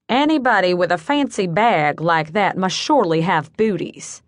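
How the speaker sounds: lightly voiced Southern charmer; Southern accent. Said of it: "In a slightly nasal Southern accent".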